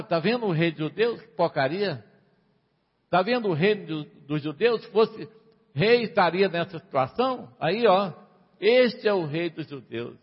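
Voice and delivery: mocking taunts to a crowd; ironic, offensive. Mockers ridiculing the crucified king, ironic and offensive. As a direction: jeer as if pointing at a fraud. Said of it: "de uma forma irônica, de uma maneira ofensiva".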